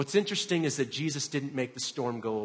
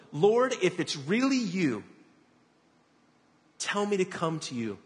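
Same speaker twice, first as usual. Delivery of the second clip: raised, higher storyteller's call; 5 semitones higher than usual. A narrator's reading. Peter to Jesus on the water, calling out. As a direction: call across the water, mildly acted. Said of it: "Peter called to him".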